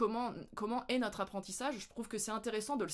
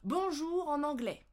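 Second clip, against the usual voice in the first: put-on higher, slow teacher questioning kids; teacher voice to children; 7 semitones higher, 3 dB louder than usual. Teacher asking the children how to say hello. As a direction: ask it like a schoolteacher to little ones. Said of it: "Alors, les enfants".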